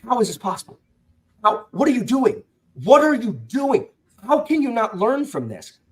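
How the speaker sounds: as if you can't believe they did it again; exasperated disbelief. Retold or imitated. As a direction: readers venting at a stubborn character, high exasperated cry. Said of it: "we're just like".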